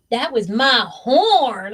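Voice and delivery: slow, puffed-up boast; drawn-out imitation of a proud husband; mock proud. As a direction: ham up his pride in the horn. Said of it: "when he said it so proudly".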